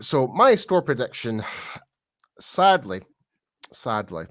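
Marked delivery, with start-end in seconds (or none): 2.4-3.0 sadly. Real, not acted. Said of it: "it pains me to say that". 3.7-4.3 sadly. Real, not acted. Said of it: "it pains me to say that".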